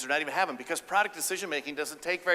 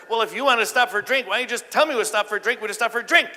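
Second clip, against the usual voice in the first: louder, higher baffled reasoning; exasperated husband; 7 semitones higher, 7 dB louder, faster than usual. Retold or imitated. Husband telling wife to just ask, exasperated and baffled. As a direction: spell out the obvious.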